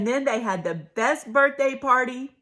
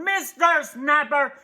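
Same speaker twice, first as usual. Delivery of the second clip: hollering possum; 4 semitones higher than usual. Acted. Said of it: "Possumandus hollered".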